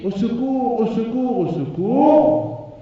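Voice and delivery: high, loud screams for help, drawn out; a woman shrieking in pain; screaming for help. A narrator's reading. The wife caught in the trap screams, high and loud. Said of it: "Elle crie".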